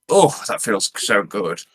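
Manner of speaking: slow, blissful sigh of words; blissful aside. Acted. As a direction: melt into the massage mid-call. Massage interrupts the radio call.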